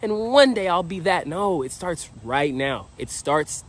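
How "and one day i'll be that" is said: slow, slightly raised put-on voice; lightly voiced wishful dreamer; mock dreamy daydreamer. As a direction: mimic someone always putting life off. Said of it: "It's like".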